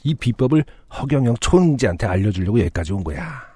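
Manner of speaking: a hint of an eager grandpa; very old man. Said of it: "할아버지는 들뜬 표정으로 말을 이어갔습니다". (들뜬 노인 목소리)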